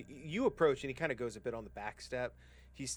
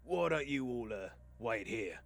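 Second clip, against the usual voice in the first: lightly commanding sellsword; trail guide calling back; 2 semitones higher, 5 dB louder than usual. Acted. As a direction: tell the party to stay put, slowing at the end. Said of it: "he looks back, and he goes".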